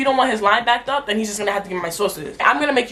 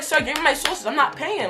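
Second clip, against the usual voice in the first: higher-pitched, exasperated retort; exasperated demand; 6 semitones higher, 3 dB quieter than usual. Retold or imitated. Customer to drive-through worker over paid sauces, exasperated demand. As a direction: re-enact a fed-up customer's demand.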